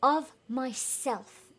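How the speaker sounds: slow, smug echo; vain echo. Acted. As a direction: stretch it out smugly. Councilors echo vanity.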